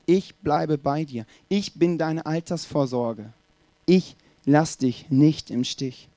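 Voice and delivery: slow, measured vow; sincere promise. Acted. Ruth promising Naomi she will stay, slow and sincere. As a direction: pledge loyalty steadily, word by word.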